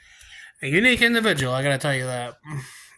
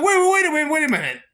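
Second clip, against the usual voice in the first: excited stalling; 10 semitones higher, much faster than usual. Retold or imitated. Mike stalling, says "He was like.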